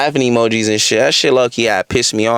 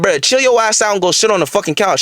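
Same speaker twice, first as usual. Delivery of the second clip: higher-pitched, exasperated command; retold stern order; 6 semitones higher than usual. Sending the faded woman off to the couch, exasperated. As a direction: replay ordering someone to settle down.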